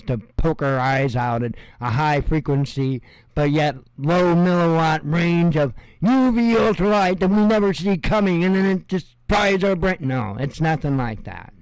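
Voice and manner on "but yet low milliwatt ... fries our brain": mock conspiracy hype. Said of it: "I'm making fun of all the prepper channels".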